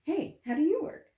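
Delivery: mock calling to a talking object; playful mock call. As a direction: shout the question brightly, twice. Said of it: "Imagine if you could just be like".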